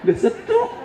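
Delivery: a stroke patient whining to himself; husband's inner complaint. Retold or imitated. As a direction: pitch shooting up at the end. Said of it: "Kata lakinya dalam hati".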